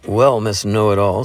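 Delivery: teasing, playful jab; bantering. Acted. Adam teasing Jeannie after the meeting, bantering. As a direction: needle her affectionately. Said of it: "said Adam banteringly".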